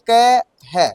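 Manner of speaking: drawn-out syllables, spoken as you type; steady slow typing drill; slow dictation. Shown as a demonstration. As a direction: chant each syllable slowly while typing. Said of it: "कह मत पढ़ो आप, इसको क्या पढ़ोगे".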